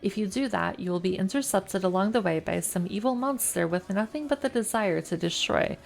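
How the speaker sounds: reading game text aloud, evenly; story narration. A narrator's reading. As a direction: narrate the scene like an audiobook.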